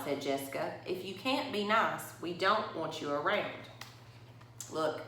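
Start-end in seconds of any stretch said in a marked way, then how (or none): 0.0-3.5 put-on reading a picture book to children; story reading. A narrator's reading. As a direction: tell it to the kids at story time. Reads picture book aloud.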